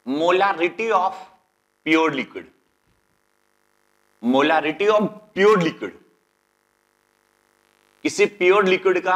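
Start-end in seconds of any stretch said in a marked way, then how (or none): 0.1-5.9 very slow, word by word, for note-taking; slow dictation. Shown as a demonstration. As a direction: spell it out slowly so students can write. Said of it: "teacher dictates heading slowly".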